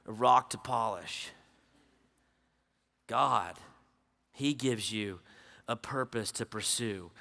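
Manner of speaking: quiet intimate pulpit close; hushed appeal. Acted. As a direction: let it sink in gently. Hushed slow closing appeal.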